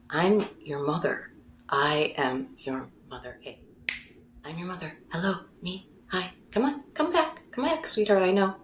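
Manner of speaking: gently coaxing mother calling back; tender mother. Retold or imitated. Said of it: "her being like".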